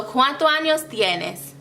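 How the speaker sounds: "¿Cuántos años tienes?" rolled smoothly with the "ñ" in "años"; Spanish flow. Shown as a demonstration. Teacher modelling a smooth question for students to mimic. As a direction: let "¿Cuántos años tienes?" roll off the tongue. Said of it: "listen to how it roll off when I say it".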